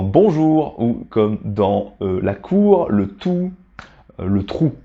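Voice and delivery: bonjour, cour, tout, trou with a rounded oo; bonjour, cour, tout, trou, each ou clearly rounded; ou sound. Shown as a demonstration. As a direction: slowly model the oo in bonjour and trou. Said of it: "alors ça devient ou".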